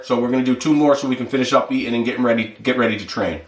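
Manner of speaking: talking while chewing; mouth full. Real, not acted. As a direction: speak through a mouthful of food. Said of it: "I'm talking while I'm eating here".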